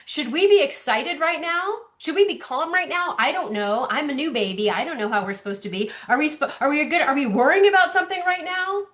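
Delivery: lightly voiced questioning newborn; baby's inner voice. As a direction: play the baby wondering what to feel. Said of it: "her nervous system is saying".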